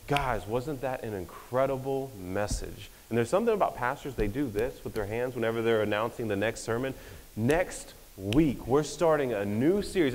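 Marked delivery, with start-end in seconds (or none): 0.1-2.9 slow, drawn-out imitation of a pastor after the sermon; mock pastor hype. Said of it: "they're always like". 7.3-10.1 light mock of a pastor promoting the next sermon; pastor announcement voice. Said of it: "And they talk like this".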